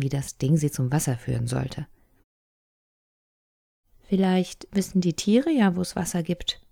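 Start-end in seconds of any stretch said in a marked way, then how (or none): 4.0-6.6 hesitant, tentative suggestion; cautious. A narrator's reading. Little sister cautiously suggests following the animals, tentative. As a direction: offer the idea carefully, testing it. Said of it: "sagte sie vorsichtig".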